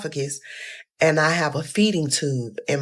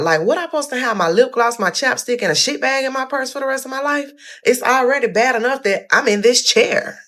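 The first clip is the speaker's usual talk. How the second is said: flipping out; 8 semitones higher than usual. Retold or imitated. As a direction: vent the outrage, voice pitched way up. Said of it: "I was flipping out".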